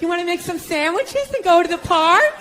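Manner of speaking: a hint of sweet eager suggestions; mock girlfriend voice. Girlfriend proposing outings to her boyfriend, lightly mocking.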